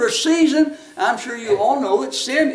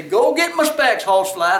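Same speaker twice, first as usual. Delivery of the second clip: great-grandmother calling; 3 dB louder than usual. Retold or imitated. Great-grandmother sends little boy for her glasses, calling out. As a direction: call out slowly as an old granny.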